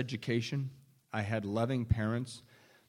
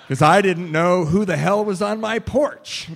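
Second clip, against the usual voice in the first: laughing; 6 semitones higher, 12 dB louder than usual. Real, not acted. Recalls hiding from the mailman.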